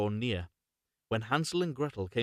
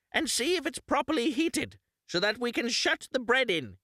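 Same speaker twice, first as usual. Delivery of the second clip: witch; 13 semitones higher than usual. Acted. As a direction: lure the girl toward the oven. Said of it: "said the witch".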